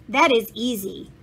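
put-on matter-of-fact with a thick German accent. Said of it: "said a man with a thick German accent".

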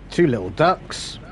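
bingo caller. Pretend. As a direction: announce it to the room. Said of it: "Eyes down for Full House".

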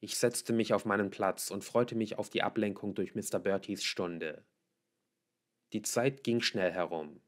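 ordinary delivery, nothing marked

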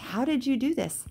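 high, amazed retold question; delighted disbelief; excited. Daughter asking her mom about first class, amazed. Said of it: "I guess I was just really joyful".

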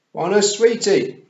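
high, slow, bellowed demand; toddler shout. A narrator's reading. Wentworth on automatic sweetie pilot, shouted. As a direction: bawl it like a small child. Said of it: "shouted Wentworth".

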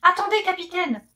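high, loud pleading cry; urgent plea. Acted. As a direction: stop him before he cooks her. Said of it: "s'écrie Carmela".

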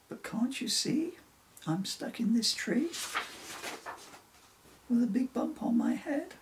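high, insistent complaint; pleading protest. Acted. Stuck reindeer interrupts the two friends for help, pleading protest.

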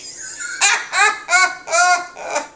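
high laugh tipping into a cry; real helpless laugh. Real, not acted. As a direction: laugh until it almost cracks. Laughing after punchline.

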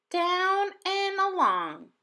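slow, careful instruction; child teaching. A narrator's reading. Manjeet showing Ling Sung how to write, slow and careful. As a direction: spell it out slowly for him.

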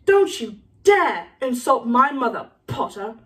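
slow, offended warning; mildly angry threat, dropping off on the last word; Malfoy. Acted. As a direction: warn him off. Malfoy warns Harry, offended.

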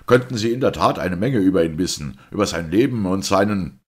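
detective rounding on the priest; terrible smiling shout. A narrator's reading. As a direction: yell with a dreadful smile. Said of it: "schrie Valentin mit fürchterlichem Lächeln".

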